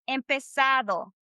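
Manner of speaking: empezado with the D softened like English "though"; native Spanish D. Shown as a demonstration. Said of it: "say it like a T H O sound".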